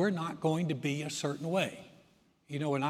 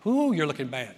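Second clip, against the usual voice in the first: a louder, snide little ooh; catty jab; 6 dB louder than usual. Retold or imitated. Someone sniping at a friend, mock catty remark. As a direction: toss out a mock insult. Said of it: "Say something like".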